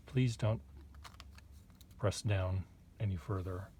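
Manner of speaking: a gravelly pen voice, quietly pleading. Pretend. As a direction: beg softly in a gruff voice. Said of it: "that's the voice that's coming out of that pen".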